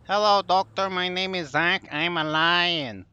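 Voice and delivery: slow, lightly put-on lion voice. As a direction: read the lion's lines slowly, half in character. Reading lion's dialogue aloud.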